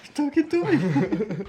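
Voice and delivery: De Niro impression. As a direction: drawl it like a movie gangster. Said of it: "c'est Taxi Driver".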